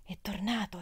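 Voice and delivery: "È tornato" said softly, falling; low voice. A narrator's reading. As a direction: hush the news to her. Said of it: "a bassa voce". (a bassa voce, sottovoce)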